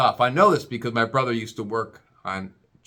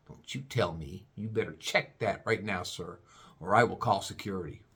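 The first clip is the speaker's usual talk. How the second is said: imitating snippy agent; 5 semitones lower, 7 dB quieter than usual. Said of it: "She was snippy with me".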